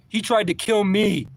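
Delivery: high, loud, slow and insistent. Retold or imitated. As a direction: hammer the words home, slowly. Yelling at the driver again.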